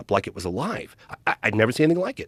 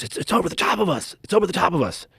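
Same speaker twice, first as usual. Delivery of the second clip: higher, urgent frightened hush; panicked whisper-like fear; 7 semitones higher than usual. Retold or imitated. Scared passenger telling his friend the thing is overhead, frightened and high. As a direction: voice a scared kid trapped in the car. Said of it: "they're freaking out".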